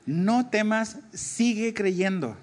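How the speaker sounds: "sigue creyendo" stretched slowly, falling at the end; drawn-out emphasis. Shown as a demonstration. Preacher explains the verb to listeners, "sigue creyendo" slow and emphatic. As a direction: raise "No temas", then draw out "sigue creyendo". Stressing the verb's continuing sense.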